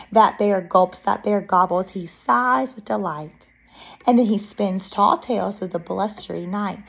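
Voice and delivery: put-on expressive read-aloud to young children; picture-book narration. Reading a bear story to children, lively narration. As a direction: read it like story time, lilting.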